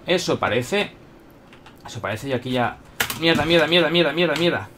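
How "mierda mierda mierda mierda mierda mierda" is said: rapid repeated panicked swearing; cursing under breath. Real, not acted. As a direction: curse fast as you get hit. Getting shot, panicked cursing.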